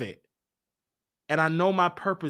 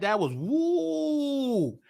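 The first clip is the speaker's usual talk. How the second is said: crying; 7 semitones higher, much slower than usual. Real, not acted. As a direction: voice breaking into a slow woo. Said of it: "but I cried".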